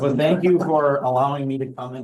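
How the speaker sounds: hoarse sore throat voice; speaking through a sore throat. Real, not acted. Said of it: "I have a bad sore throat".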